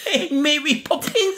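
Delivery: very high, drawn-out character voice; Abomination impression. Cohost keeps up the Abomination act, high hammed-up impression. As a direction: ham up the impression, high and slow. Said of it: "trying to do the impression".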